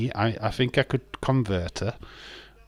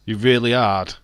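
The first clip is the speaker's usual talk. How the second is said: louder, leering really hard; suggestive; 7 dB louder than usual. Real, not acted. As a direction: make it sound dirty. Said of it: "make it sound like you was gonna study it sexually".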